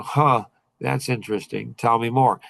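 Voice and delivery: a pondering huh, then an easy invitation to go on; thoughtful curious prompt. Shown as a demonstration. Coach shows how to answer a prospect, thoughtful and curious. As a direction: hand to chin, musing and curious. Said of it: "you have to say it just like that".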